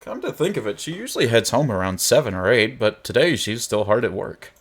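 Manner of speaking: lively, measured read-aloud of game text; story narration. A narrator's reading.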